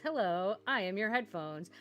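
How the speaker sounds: hint of deep robot voice. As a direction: lightly play a polite headphone. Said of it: "In deep voice".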